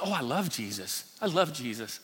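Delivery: quietly imitating a new believer; soft, simple devotion. Preacher voicing a new believer's simple reply, softly. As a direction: say it softly, low-key and sincere.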